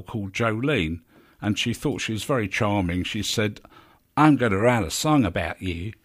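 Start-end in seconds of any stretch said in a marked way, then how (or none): 4.1-5.9 a hint of a country singer; country-singer impression. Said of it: "That's my country singer thing".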